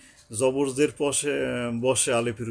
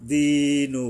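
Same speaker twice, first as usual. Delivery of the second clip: দিনু louder, with a held ee; one-alif elongation; 3 semitones higher, 6 dB louder, much slower than usual. Shown as a demonstration. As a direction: stretch the first vowel of দিনু. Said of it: "এক আলিফ টানতে হবে". (দিনু এক আলিফ টেনে)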